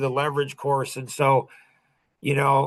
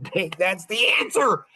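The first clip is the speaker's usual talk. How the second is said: higher-pitched mock eureka; acted realization; 4 semitones higher than usual. Acting out someone thrown the answer, mildly excited discovery. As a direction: play a sudden lightbulb moment.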